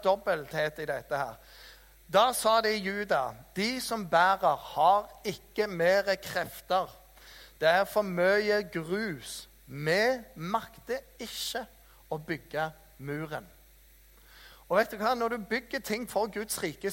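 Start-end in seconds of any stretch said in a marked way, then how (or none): 3.6-13.5 slow, worn-out lament; weary complaint. Retold or imitated. Judah's tired builders complaining about the wall, slow and weary. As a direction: drag each word like exhausted builders.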